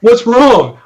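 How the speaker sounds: normal talking voice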